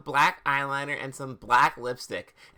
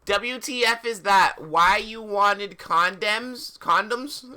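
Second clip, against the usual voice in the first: slow, high, taunting question; hammed-up sneering interrogation; mock sadistic question; 5 semitones higher, 3 dB louder than usual. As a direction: drag out the mockery, rising high. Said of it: "I asked sadistically".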